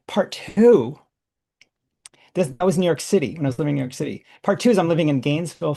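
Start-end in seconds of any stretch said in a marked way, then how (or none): 0.1-1.0 whispered, higher; whispered heading. Shown as a demonstration. Starting the story's second part, whispered. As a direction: drop to a whisper to announce the next part. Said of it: "So that's part one of the story".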